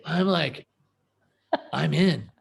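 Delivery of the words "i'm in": chuckling, giving in happily; laughing agreement. Retold or imitated. Telling his wife he's joining her business, laughing. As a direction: laugh it out, sold on the idea. Won over by wife's success.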